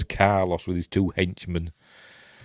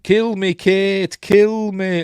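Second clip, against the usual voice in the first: high, a bit louder begging voice; pleading dad; 11 semitones higher, 5 dB louder, much slower than usual. Retold or imitated. Bitten father begging his daughter to shoot him, high pleading. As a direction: beg her to end it, pushed up high. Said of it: "And he's saying".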